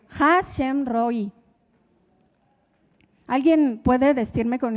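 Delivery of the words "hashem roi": Hashem roi said very slowly and softly; Hebrew phrase. Shown as a demonstration. Preacher closes his test in Hebrew, slow and careful. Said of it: "al final en hebreo".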